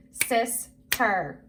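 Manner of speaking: "Sister" split in two, sis, ter; syllable by syllable. Shown as a demonstration. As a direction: break "Sister" into two separate beats. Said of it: "Do it with me".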